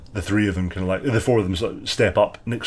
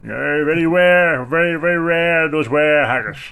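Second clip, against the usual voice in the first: a bit higher, mock solemn agreement; halfling voice; 6 semitones higher than usual. Halfling solemnly agrees about rare were haggis, a bit higher. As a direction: agree gravely, tongue in cheek.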